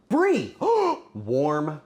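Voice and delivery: thrilled to see the brie; excited cry. Real, not acted. Streamer spotting the brie for the viewers, excited cry. Excited about the next cheese.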